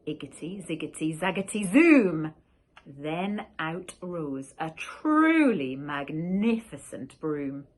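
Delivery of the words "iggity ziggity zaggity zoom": muttered spell. A narrator's reading. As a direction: chant it up to a burst. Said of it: "she muttered a spell".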